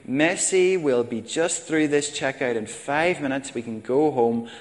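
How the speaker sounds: strained patience at the checkout; patient mother. Retold or imitated. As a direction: keep it sweet through gritted teeth. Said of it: "The mother said patiently".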